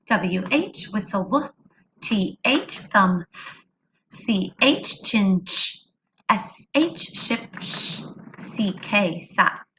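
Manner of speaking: letters, key word, then the sound; teacher drilling digraph sounds. Shown as a demonstration. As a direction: model each digraph sound clearly. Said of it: "let's warm up our digraphs".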